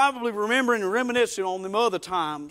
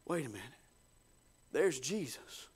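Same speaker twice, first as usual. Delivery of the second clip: little lady; 7 semitones lower, 13 dB quieter than usual. Acted. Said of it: "I can hear a little lady".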